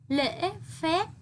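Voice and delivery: lễ with a clear broken ngã tone, phép ending on closed lips; careful lễ phép. Shown as a demonstration. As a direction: model lễ phép slowly, lips shut at the end of phép. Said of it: "đọc đúng thanh ngã ở tiếng lễ ... môi khép kín".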